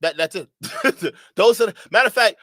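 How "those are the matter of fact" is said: laughing into the words; cracking up mid-sentence; a laugh spilling into speech. Real, not acted. Laughs at the clip.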